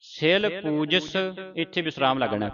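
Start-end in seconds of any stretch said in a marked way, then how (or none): 0.0-1.2 ਸਿਲ ਪੂਜਸ drawn out with soft, light endings; soft pronunciation. Shown as a demonstration. Teacher shows students the line, soft slow pronunciation. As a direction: say ਸਿਲ ਪੂਜਸ slowly, releasing each last consonant softly. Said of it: "ਪੋਲਾ ਉਚਾਰਨ ਕਰਨਾ ਹੈ".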